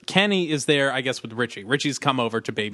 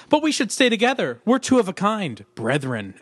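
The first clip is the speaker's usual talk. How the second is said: put-on old-fashioned kid voice; 6 semitones higher than usual. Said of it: "children did not speak like this".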